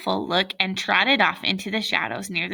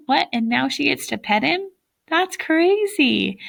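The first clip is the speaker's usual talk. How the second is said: amused disbelief; 6 semitones higher than usual. Real, not acted. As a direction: laugh at how absurd it is. Reader's amused aside.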